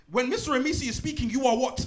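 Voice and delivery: high, sing-song call to the class; teacher drilling pupils on silence. Acted.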